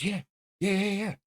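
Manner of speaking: quick high excited yeahs; eager high yeahs. Retold or imitated. Homeboy eagerly agreeing.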